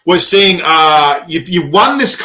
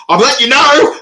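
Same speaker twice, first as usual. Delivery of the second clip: laughing quote; 10 semitones higher, 4 dB louder than usual. Retold or imitated. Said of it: "I'm going".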